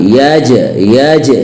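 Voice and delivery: यज with the J echoed back; bouncing Jeem. Shown as a demonstration. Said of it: "जीम की आवाज़ टक्कर खा के दोबारा". (यज में जीम टक्कर खाकर)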